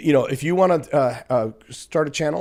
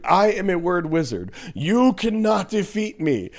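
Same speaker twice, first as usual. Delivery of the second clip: mock wizard; 6 semitones higher than usual. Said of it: "listen to this dude".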